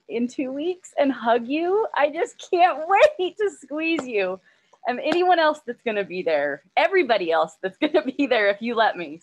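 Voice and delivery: giddy laughing anticipation of a reunion; real excited joy. Real, not acted. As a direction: gush with delight about hugging everyone soon. Overjoyed to hug friends soon.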